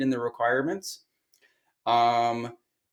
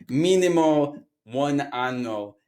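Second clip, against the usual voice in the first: slow, stretched fake Italian accent; terrible mock accent, vaguely Italian; 3 semitones higher, 4 dB louder, much slower than usual. Teacher translating the job's minimum requirement, bad Italian accent. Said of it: "what accent that was".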